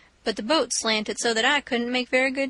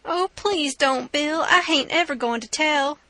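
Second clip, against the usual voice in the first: pleading captive; 4 semitones higher than usual. Acted. Bound man begging the robber, higher and pleading. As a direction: beg for your life, a little higher.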